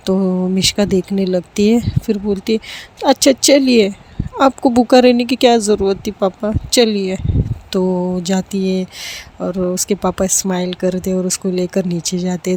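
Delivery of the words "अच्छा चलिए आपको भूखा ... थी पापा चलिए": a lightly voiced little girl relenting; voiced daughter giving in. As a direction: give in to papa with a rush of affection. Daughter agrees, voiced in story.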